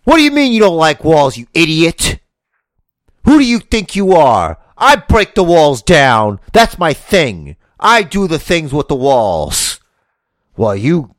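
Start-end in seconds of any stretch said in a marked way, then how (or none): 0.0-9.8 loud, high, fast ranting wrestler; Chris Jericho. Acted. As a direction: bark it like an outraged wrestler. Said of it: "Chris Jericho walks in".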